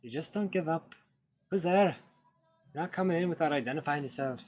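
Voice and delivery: father shouting through the door; angry shout. Acted. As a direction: bark at the stranger outside.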